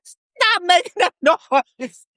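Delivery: high, drawn-out exasperated order; mock sergeant yell. Drill sergeant silencing squealing recruit, slow mock yell.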